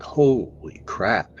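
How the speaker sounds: slow, stretched-out holy crap; half-whispered astonishment; drawn-out awe. Retold or imitated. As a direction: let "Holy crap" hang in slow disbelief. Awe at huge tree structures.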